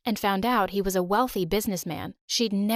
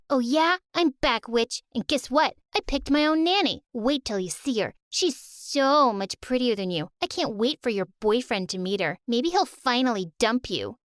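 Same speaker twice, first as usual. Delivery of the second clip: put-on taunting little girl; 3 semitones higher than usual. Sisters trading insults.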